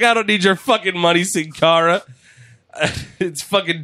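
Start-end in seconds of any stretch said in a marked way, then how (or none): 0.0-2.0 mock disdain.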